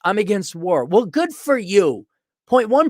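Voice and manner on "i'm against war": lightly voiced mock pacifist; a hint of the idiot pacifist; toned-down mocking quote of a pacifist; idiot pacifist, mild. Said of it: "the idiot pacifist".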